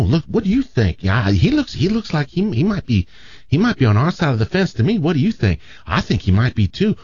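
campy Southern gay nurses. Acted. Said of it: "my natural gay imitation just comes across as Southern".

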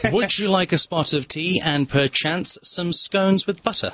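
slow, careful British accent. Shown as a demonstration. Guest repeats the sample for hosts to copy, very British accent. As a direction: draw out the British accent for copying. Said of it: "say it one more time".

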